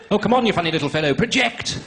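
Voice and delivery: hammed-up elocution coach urging someone on; exasperated drama coach. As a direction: chivvy a mumbler like a drama teacher. Coaching his mugger like drama teacher.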